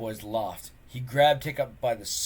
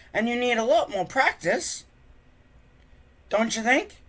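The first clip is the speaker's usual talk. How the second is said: higher, gentle hinting voice; 12 semitones higher, 8 dB louder than usual. Acted. Friend kindly hinting at Hiccup, higher voiced. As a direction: nudge him kindly toward practice.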